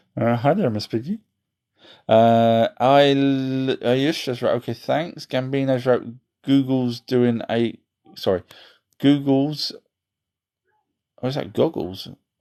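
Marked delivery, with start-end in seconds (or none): 0.3-1.1 put-on frog puppet voice. Reading chat on stream, he slips in a quick bit: Kermit the Frog impression. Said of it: "my Kermit the Frog impression".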